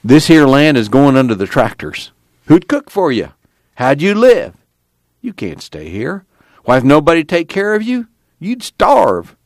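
high, insistent protest; urgent arguing. A narrator's reading. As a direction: press the old man with worried questions. Pa argues against Grandpa staying.

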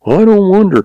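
high amused chuckle; chuckling. A narrator's reading. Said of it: "chuckled the stableman".

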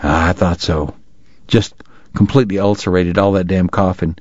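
a hint of a no-nonsense country doctor; lightly voiced gruff doctor. The doctor examines his throat.

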